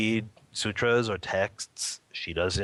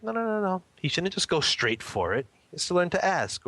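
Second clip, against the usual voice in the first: firm insistence; 9 semitones higher than usual. Retold or imitated. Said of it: "It's like".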